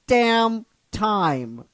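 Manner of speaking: rising cheer that drops on damn time; crowd shout. Retold or imitated. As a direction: shout it like the whole crowd at once. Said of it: "everybody says".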